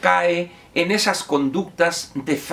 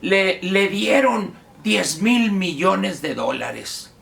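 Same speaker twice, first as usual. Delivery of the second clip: slow, higher mock accusation; lightly mocking, stretched-out quote; imitating the accuser; 4 semitones higher, slower than usual. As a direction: mimic an online ranter, drawing out the sum. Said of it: "Y dice".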